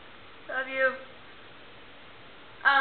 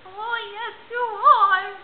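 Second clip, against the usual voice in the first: grandma's reply; 8 semitones higher, 5 dB louder, much slower than usual. Retold or imitated. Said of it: "she's like".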